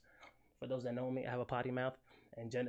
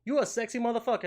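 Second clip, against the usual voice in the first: hype greeting; 9 semitones higher, 8 dB louder, faster than usual. Retold or imitated. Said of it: "Genesis was like".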